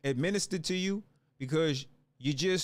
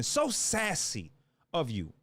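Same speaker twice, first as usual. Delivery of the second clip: drawn-out mocking; 4 semitones lower, slower than usual. Real, not acted. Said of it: "The attitude of these guys".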